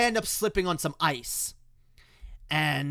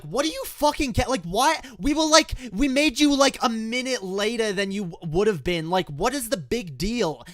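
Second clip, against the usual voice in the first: high, loud, incredulous protest; exasperated outburst; 8 semitones higher, 4 dB louder than usual. Retold or imitated. Kid finally confronting yelling dad in the car, exasperated. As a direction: argue back heatedly, pitch jumping. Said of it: "I fucking snapped back".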